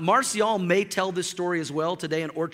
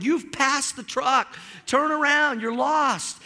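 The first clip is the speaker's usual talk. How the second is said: exasperated; 6 semitones higher, slower than usual. Retold or imitated. Pastor scolds lost friend.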